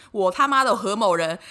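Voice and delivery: slow and loud, each word hit; emphatic vow. Real, not acted. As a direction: swear it like an oath. Swearing a vow. (慢而大声地发誓)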